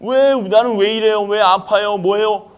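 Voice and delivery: a complaining churchgoer whines at God, mock whining; mock whining complaint. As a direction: imitate a grumbling believer blaming God. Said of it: "하나님 원망한다니까요".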